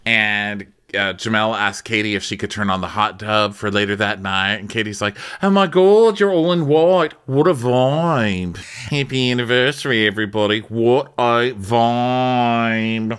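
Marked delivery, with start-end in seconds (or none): 5.4-13.2 high, loud, drawn-out gush; hammed-up cheery host; mock gushing. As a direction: gush over everyone in a high voice. Imitating Katie gushing.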